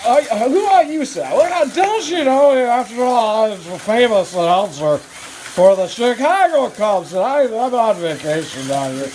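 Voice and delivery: Harry Caray. Acted. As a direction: play the old ballpark announcer. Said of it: "you're Harry Caray".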